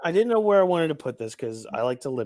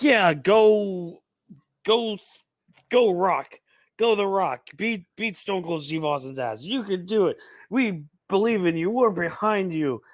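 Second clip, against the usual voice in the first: cheering wrestling fans; 5 semitones higher than usual. Retold or imitated. Mocking fickle wrestling fans by cheering for The Rock. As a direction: whoop it up like a crowd egging on The Rock. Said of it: "Be like".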